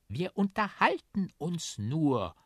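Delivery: high, slow trumpet voice; breathed reply. A narrator's reading. Trumpet protests to the policeman, high breathed reply. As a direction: lightly breathe it out, drawing it out. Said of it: "haucht die Trompete".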